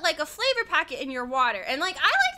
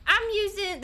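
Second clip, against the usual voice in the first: imitated southern accent; 5 semitones higher than usual. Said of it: "they always have a southern accent".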